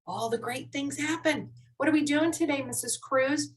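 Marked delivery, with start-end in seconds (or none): 1.7-3.5 quick question. Acted. Student asks teacher about today's lesson, quickly. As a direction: rattle off the question in one breath. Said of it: "The reason why I'm talking so fast".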